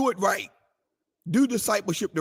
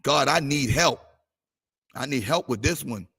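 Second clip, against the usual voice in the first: quiet prayer retold; 4 semitones lower than usual. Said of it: "I was praying the whole night".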